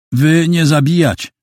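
put-on high, pleading voice of a scared girl; frightened broken Polish. A narrator's reading. Scared girl pleading with the two men, high and pleading. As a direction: beg them not to kill her.

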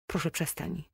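curt, clipped plea; sharp cut-off. A narrator's reading. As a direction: cut her off with an edge. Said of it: "Ucięła ostrzejszym tonem". (ostro, urywając)

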